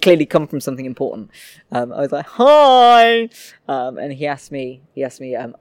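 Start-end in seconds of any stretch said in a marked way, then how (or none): 2.3-3.3 high nervous "hi". Retold or imitated. Nervous greeting to priest.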